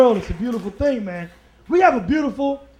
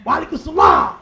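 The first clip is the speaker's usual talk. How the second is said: African American brother; 3 dB louder than usual. Acted. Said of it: "one of our African American Muslim brothers".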